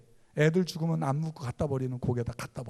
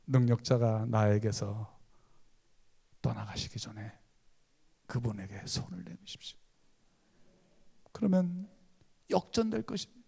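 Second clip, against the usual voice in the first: hushed appeal; 6 semitones lower, 5 dB quieter than usual. Real, not acted. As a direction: lean in and urge them gently. Pleading call to reach out.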